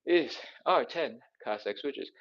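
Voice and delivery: breathless after the exercise; puffing, out of breath from the reps. Real, not acted. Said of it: "Whew, I'm out of breath".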